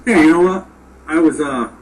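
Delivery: talking while munching seeds; words round a mouthful of seeds; eating sunflower seeds. Real, not acted. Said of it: "I'm eating sunflower seeds as we're doing this".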